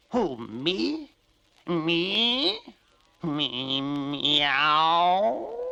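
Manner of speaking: high, rising meow of surprise; a flattered cat squeaking; mock astonished cat; surprised cat.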